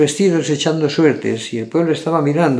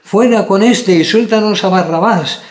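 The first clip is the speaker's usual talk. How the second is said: a raised, higher call of the crowd; crowd crying out; 5 semitones higher, 4 dB louder than usual. A narrator's reading. Crowd shouting at Pilate for Barabbas, raised voice. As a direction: voice the crowd demanding Barabbas, a touch loud. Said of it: "dio voces a una diciendo".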